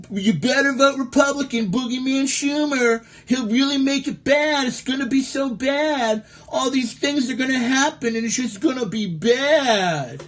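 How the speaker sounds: lightly voiced fearmonger with a mock-ominous edge; mocking scaremonger. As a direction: sell the boogeyman scare with a sneer. Mocks Republican boogeyman scare pitch.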